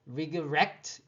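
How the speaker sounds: regret stressed on GRET; light start to regret, weight on second syllable; stress on last syllable. Shown as a demonstration. Teacher reading an example aloud, re-GRET. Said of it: "여기 이의 강세가 있어요".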